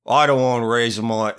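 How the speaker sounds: rough attempt at a Scottish accent; bad Scottish accent. Host imitating a careless Scottish parent, bad Scottish accent. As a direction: fumble a Scottish accent, unsure of it. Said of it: "Scottish accent is, but that's basically it".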